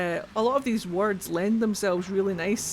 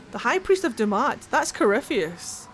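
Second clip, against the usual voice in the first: surprised; 3 semitones higher than usual. Real, not acted. Recognises a name mid-reading.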